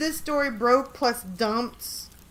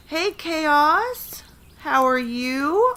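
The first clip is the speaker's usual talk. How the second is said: delighted greeting; 6 semitones higher, 5 dB louder, much slower than usual. Real, not acted. Greeting a chat member happily.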